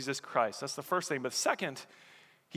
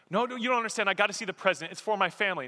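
higher, insistent pleading; urgent pleading; 5 semitones higher, 3 dB louder, much faster than usual. Acted. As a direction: plead quickly and insistently to be let in. Soldier pleads with bodyguards.

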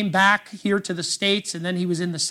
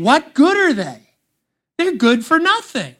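scornful dismissal; 5 semitones higher, 5 dB louder than usual. Retold or imitated. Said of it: "He's saying".

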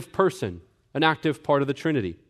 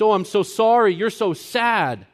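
mock pity; 6 semitones higher than usual. Mocking sentimental pity.

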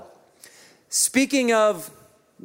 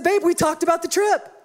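raised, protesting reply; defensive husband; 10 semitones higher than usual. Retold or imitated. Pastor replays defending himself to his wife, raised and protesting. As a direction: insist you did talk.

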